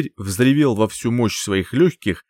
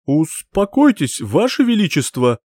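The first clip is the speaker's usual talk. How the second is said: hysterical plea; 5 semitones higher, 3 dB louder than usual. Acted. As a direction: beg the king to calm down in panic. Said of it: "превратился в истеричное создание".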